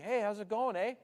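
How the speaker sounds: easy Canadian greeting with a tagged-on eh. Shown as a demonstration. Canadian greeting people back up north, Canadian accent. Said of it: "So instead of saying".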